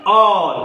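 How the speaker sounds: "all" with a long aw vowel; open aw sound. Shown as a demonstration. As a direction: model "all", stretching the aw. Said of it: "ए चा उच्चार अ असा करायचा". ("all" मधला ऑ लांबवून)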